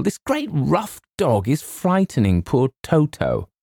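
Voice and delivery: put-on high, fretful girl's appeal; crying out. A narrator's reading. Girl complains to James about his dog, crying out. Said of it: "cried the girl".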